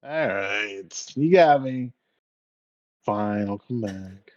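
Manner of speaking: mock reluctant surrender. Acts the man reluctantly giving up.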